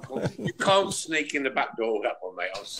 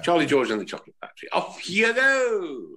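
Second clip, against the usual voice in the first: quick host announcement; 3 semitones higher, 3 dB louder than usual. Shown as a demonstration. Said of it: "I'll start you off".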